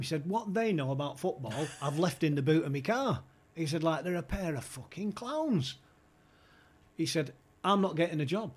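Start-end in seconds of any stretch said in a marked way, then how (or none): 0.3-3.2 mildly indignant mock tirade; retold phone rant. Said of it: "he's going mental on the phone". 3.8-5.8 slow, higher-pitched mock exasperation; retold phone rant. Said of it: "he's going mental on the phone". 7.6-8.5 higher-pitched indignant insistence, imitated; retold phone rant. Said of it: "he's going mental on the phone".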